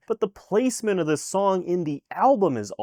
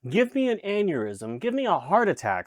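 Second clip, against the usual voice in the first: mock-desperate plea; 4 semitones higher than usual. Begs to be struck down mid-review.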